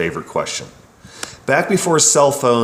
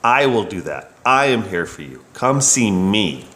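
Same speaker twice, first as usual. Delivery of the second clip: personal reassurance. Shown as a demonstration. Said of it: "sometimes customers need an I".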